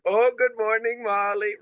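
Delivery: high, light mock of Silke's accent greeting the dog; imitating Silke's accent. Host mimicking Silke's accent greeting dog Molly in the morning. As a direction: put on Silke's accent for a sing-song hello. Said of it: "oh, with the accent".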